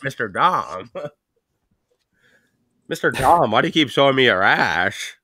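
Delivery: lightly voiced lisping kid. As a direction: lisp through it like a kid. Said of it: "a kid with a crazy lisp".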